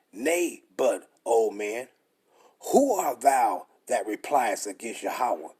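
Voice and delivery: slow, weighty reading of the verse; scripture reading. Acted. Preacher reading Romans to his listeners, slow and solemn. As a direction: read the scripture out slowly, like the pulpit.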